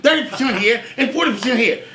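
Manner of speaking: hammed-up Perot, only slightly put on; Ross Perot impression. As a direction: lightly mimic a folksy billionaire pitching his chart. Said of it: "and he talked like this".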